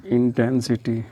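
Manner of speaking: slow, dictated लुमिनस; slow dictation. Shown as a demonstration. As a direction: draw out लुमिनस very slowly. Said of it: "लुमिनस intense".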